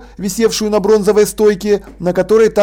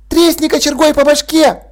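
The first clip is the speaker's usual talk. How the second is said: put-on high, gleeful kid voice; eager child; 8 semitones higher than usual. A narrator's reading. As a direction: egg her on, high and thrilled. Мальчик подзадоривает Сьюзен. (мальчик радостно подзуживает Сьюзен, высоко и азартно)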